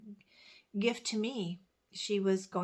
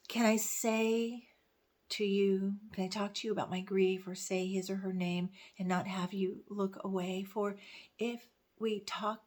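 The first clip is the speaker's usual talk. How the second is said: pushing through a poem while welling up; getting emotional. Real, not acted. Resuming the grief poem for viewers, getting emotional. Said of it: "I'm getting emotional".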